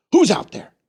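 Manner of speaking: high shout of a farmer; calling out. Acted. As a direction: yell into the dark.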